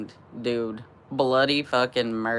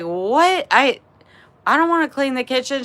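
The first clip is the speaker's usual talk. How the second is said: high, fast, whiny protest; rushing out an outraged refusal; protesting teen; 10 semitones higher than usual. Retold or imitated. Thirteen-year-old protesting to mom, high and fast.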